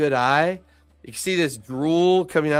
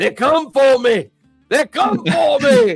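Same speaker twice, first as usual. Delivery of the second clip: shrill, high, rising panicked yell at full volume; 12 semitones higher, 6 dB louder than usual. Narrating a game scene, voicing an ogre tearing off into the crowd, yelling at top of lungs. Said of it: "just yelling at the top of his lungs".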